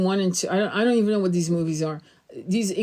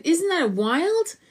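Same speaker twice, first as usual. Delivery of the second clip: higher, slow drawn-out wonder; amazed; 9 semitones higher, much slower than usual. Retold or imitated. Calling mom about the angel clouds, slow and amazed. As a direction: stretch it out in awe. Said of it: "And I said".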